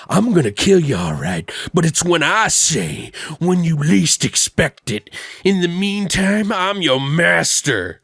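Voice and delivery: lightly voiced menacing master, stretched phrases; mock villain threat. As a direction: imitate a hustler laying down the rules. Voices hustler's threat to the woman.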